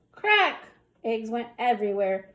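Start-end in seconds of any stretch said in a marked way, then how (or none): 0.1-0.6 high, loud splat; exclaimed sound effect. A narrator's reading. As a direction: pop the sound word out. Sound word in story.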